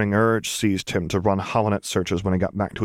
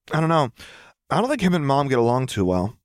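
put-on teen voice; 6 semitones higher than usual. Teenage boy answering.

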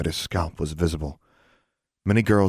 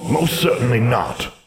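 a hint of an indignant old ghost, higher; angry; 6 semitones higher, 3 dB louder than usual. Ghost answering the girl's taunt, indignant. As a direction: snap it back, offended. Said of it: "Angrily, he said".

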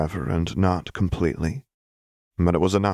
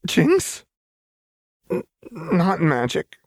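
alarmed; 11 semitones higher, slower than usual. Acted. Lux alarmed as Jinx thrashes.

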